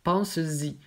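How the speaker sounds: "Pense-y" linked as "pense-zi", a clear z before the y; "Pense-y" as "pan-zi" with the linking z; with a Z sound. Shown as a demonstration. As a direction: say "Pense-y" with a z liaison, pan-ZEE. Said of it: "ça se prononce avec un Z".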